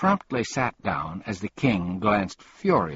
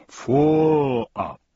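grunting; 5 dB louder than usual. A narrator's reading. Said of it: "grunted the Undersecretary".

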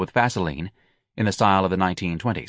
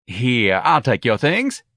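eager manager; 4 semitones higher, 4 dB louder, slower than usual. A narrator's reading. Same eager manager offering help.

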